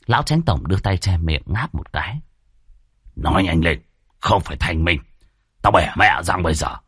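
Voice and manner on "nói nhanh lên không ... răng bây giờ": low, curt threat; a mild irritated landlord; impatient chief. Acted. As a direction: snap at him to hurry.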